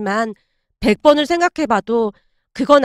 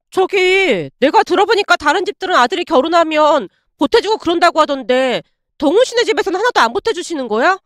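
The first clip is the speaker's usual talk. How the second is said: put-on higher, coaxing girlfriend voice; voiced girlfriend; 3 semitones higher than usual. Ex-girlfriend hinting that his parents should pay, higher coaxing voice. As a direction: ease into the ask in a lifted female voice.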